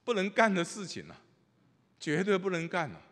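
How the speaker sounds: hammed-up refusal to back down; mock insistent protest. Inner voice insisting, pride at stake. (夸张地大声坚持)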